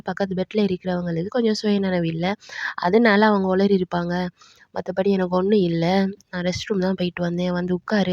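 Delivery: low-pitched, gently retold consolation; reassuring. Grandmother consoles the grandson, mildly reassuring. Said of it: "அவனை சமாதானப்படுத்திட்டு".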